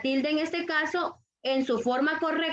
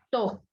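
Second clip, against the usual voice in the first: "To" said alone as the stressed beat; teacher singling out "To"; stressed syllable; 4 semitones lower than usual. Shown as a demonstration. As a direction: isolate "To" as a single firm syllable. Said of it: "cuál es la sílaba tónica".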